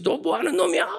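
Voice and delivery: very high, sharp scolding demand; angry scolding. Retold or imitated. Deacon confronting the boy, shrill angry scolding. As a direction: tell the brat off. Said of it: "또 그분이 뭐라고 했어".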